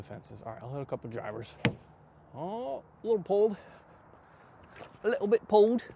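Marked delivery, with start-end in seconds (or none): 2.3-5.8 mock surprise. Real, not acted. Commenting on his own shot.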